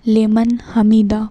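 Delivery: slow, stretched syllables with pauses between phrases; careful slow recitation. Shown as a demonstration. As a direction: teach it phrase by phrase, unhurried. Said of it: "اس کو بھی اچھے سے یاد رکھیں".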